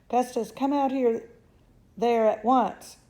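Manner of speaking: mother ordering son out, loud; commanding yell. Acted. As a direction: bark the order at him.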